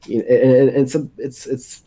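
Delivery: tripping over words; stammering, can't get it out; stuttering. Real, not acted. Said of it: "I'm stuttering quite a bit".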